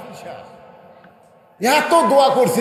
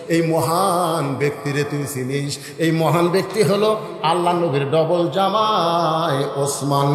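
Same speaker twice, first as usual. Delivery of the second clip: melodic preaching; 2 semitones lower than usual. Acted. Preacher tells of the shepherd seeking Omar, melodic preaching. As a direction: draw out line endings in a chant.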